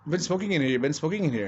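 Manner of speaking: high, loud accusing manager voice; sniffing bloodhound manager. Retold or imitated. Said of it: "he's going around like freaking bloodhound".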